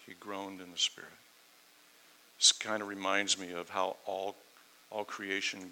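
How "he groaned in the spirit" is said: hushed repeat. Shown as a demonstration.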